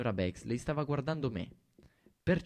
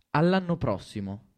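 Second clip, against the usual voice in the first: menacing; 3 semitones higher, 7 dB louder than usual. A narrator's reading. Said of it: "far suonare ... come la scena dell'allarme".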